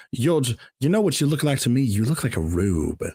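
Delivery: imitating a movie villain mocking a Southern accent; measured, taunting villain impression, sinking low at the end; Hannibal Lecter. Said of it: "when Hannibal Lecter makes fun of that".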